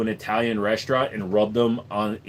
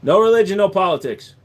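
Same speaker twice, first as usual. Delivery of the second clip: loud mock rule; 7 semitones higher, 7 dB louder than usual. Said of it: "reading chat rules".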